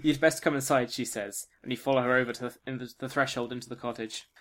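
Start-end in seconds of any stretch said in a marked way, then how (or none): 0.0-0.9 put-on livelier, fuller old woman voice; more emotive witch. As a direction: give the line some feeling. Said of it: "why blind people just stop emoting".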